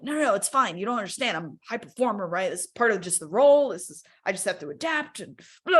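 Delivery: brisk mock self-justification; dismissive excuses. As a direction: brush it off with ready excuses. Dismissing the body's warnings.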